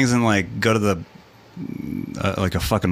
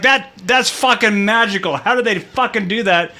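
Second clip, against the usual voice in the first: put-on awed kid; 10 semitones higher than usual. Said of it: "I was like".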